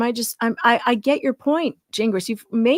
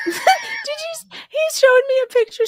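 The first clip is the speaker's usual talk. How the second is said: high squeal of laughter; laughing; 4 dB louder than usual. Real, not acted. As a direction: talk through laughter.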